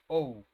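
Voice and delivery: O said as the English letter, "oh"; O with an English gliding "oh" vowel. Shown as a demonstration. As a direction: model O as a stand-in for zero, "oh". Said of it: "Como si fuera una O".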